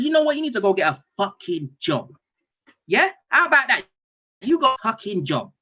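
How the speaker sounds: angry telling-off. Retold or imitated. Fed-up dad telling his one-year-old to get a job, angry scolding. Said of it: "I had to shout at him".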